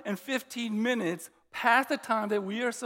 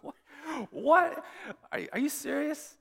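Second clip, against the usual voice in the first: a sharp high "What?" then half-laughing disbelief; surprised disbelief; 7 semitones higher than usual. Retold or imitated. Pastor tells him they end when people leave, so he blurts out stunned disbelief. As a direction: sound floored by the news. Pastor says service never ends.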